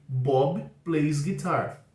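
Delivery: every word of "Bob plays guitar." drawn out; very slow statement. Shown as a demonstration. Teacher modelling the statement for students, very slow. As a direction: spell the sentence out slowly for learners. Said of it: "É o caso de".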